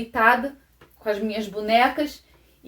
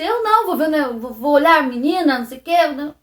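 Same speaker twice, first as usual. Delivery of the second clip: higher, dismissive voicing of the stepfather; man's retorted reply; 5 semitones higher, 4 dB louder than usual. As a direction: brush off the request, evasive. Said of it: "Ele falou assim".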